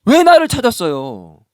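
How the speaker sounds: slow, bold and defiant question; a boy boldly questioning his parents. Retold or imitated. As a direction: throw it back boldly, no apology. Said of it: "오히려 지금 당당하게".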